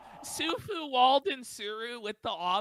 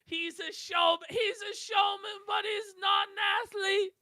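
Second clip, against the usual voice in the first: hammed-up wrestling commentator, raised; mock announcer voice; 7 semitones higher than usual. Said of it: "it was such a funny line".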